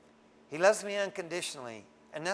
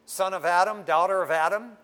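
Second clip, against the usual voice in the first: loud retort; 6 dB louder than usual. Retold or imitated. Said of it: "I go".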